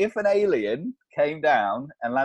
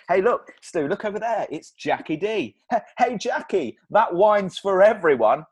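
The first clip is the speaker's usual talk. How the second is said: mock party chatter; 5 semitones higher, 4 dB louder than usual. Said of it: "it's like a party here".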